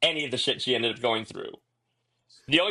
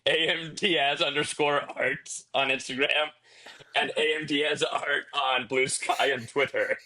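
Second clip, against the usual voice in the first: demonic layered voice; slower than usual. Pretend. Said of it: "can you do it in a demon voice".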